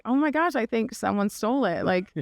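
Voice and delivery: a retold gasp of shock, half-laughing at how absurd it is; shocked disbelief. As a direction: voice jumping up high in outraged disbelief. Retelling discovering the stolen cart.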